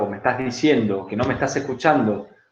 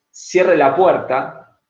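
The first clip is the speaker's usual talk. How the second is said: slow demo line; much slower than usual. Shown as a demonstration. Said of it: "de distintas maneras".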